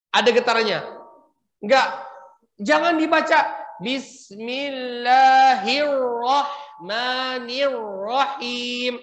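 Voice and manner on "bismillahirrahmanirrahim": Western accent. Shown as a demonstration. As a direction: recite like a Westerner, R not rolled. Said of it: "Kayak orang barat ngomongnya".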